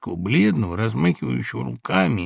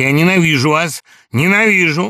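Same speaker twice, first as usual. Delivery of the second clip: burst of hatred; 6 semitones higher, 9 dB louder than usual. A narrator's reading. Laevsky erupting with hatred.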